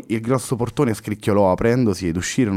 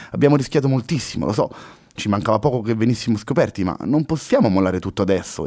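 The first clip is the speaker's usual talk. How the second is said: convinced exclamation; 3 semitones higher than usual. Acted. Luna convinces Henry to go back and spy, determined and excited. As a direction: push the plan with conviction. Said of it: "esclamò convinta la ragazza".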